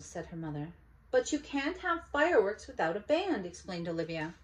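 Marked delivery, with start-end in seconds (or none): 1.1-3.4 put-on higher, louder little girl protest; insistent child. Olivia insisting to mother, high and loud. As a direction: explain it like it's obvious.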